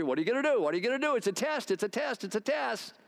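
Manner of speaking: God pushing the question home; God insisting. Retold or imitated. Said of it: "And God goes".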